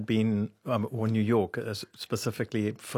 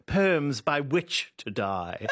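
mother's posh correction; 3 semitones higher, much slower than usual. Retold or imitated. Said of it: "declaim these in her posh voice".

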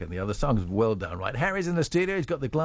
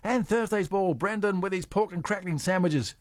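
lilting radio roll call of contestants; prize-draw announcer; 4 semitones higher than usual. Real, not acted. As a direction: call each entry in like a game host. Calls out the raffle entries.

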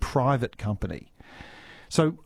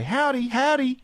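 high, sing-song howdy to the dog; mock greeting to a dog; 14 semitones higher, 4 dB louder than usual. Listener greeting the neighbour's dog in a high sing-song. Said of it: "of course I say".

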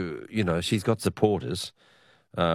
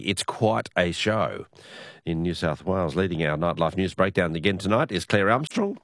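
radio news bulletin delivery; news read. Acted. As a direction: read out the day's political news to listeners. Reads news, introduces correspondent.

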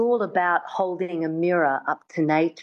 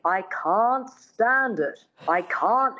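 slow, careful mid-Atlantic correction; lightly voiced dialect coach; 3 semitones higher, slower than usual. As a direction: model the line slowly like a coach. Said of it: "her dialect coach says".

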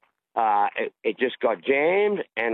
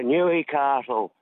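lightly imitated American accent, drawn out; slow mock American accent on the town name; touch of a country singer's American accent; much slower than usual. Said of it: "in his accent".

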